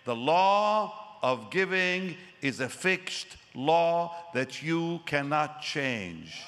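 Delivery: slow, weighty pronouncement; father-in-law declaring a fixed law; solemn mentor. Retold or imitated. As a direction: lay down the law slowly. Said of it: "He said".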